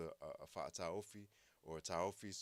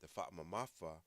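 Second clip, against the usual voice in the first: ordinary talk, nothing marked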